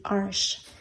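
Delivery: "arche" as one syllable, ending in sh; French-style pronunciation. Shown as a demonstration. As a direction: say "arche" like "arsh". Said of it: "It's French".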